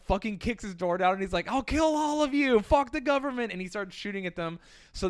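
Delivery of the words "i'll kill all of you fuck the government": high, a bit louder, hammed-up madman threat; mock crazed threat. Trapper threatening the Mounties from his door, hammed-up crazed threat. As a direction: play the trapper as an unhinged lunatic, hammed up.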